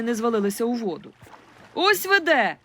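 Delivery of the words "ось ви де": high loud glad cry; boy in the boat shouting; excited shout. A narrator's reading. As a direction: call out with relief. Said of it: "крикнув Кваша".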